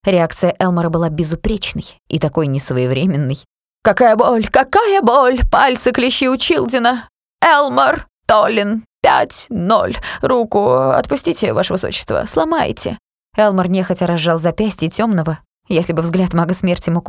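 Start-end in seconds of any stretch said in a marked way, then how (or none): 3.8-4.5 loud wailing in pain; hit hard crying out. Acted. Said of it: "взвыл от боли". 4.5-13.0 hit hard crying out. Acted. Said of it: "взвыл от боли".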